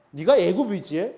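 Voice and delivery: scornful, incredulous questioning; mock them for trusting in the wrong ally; scoffing mockery. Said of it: "비웃는 거예요".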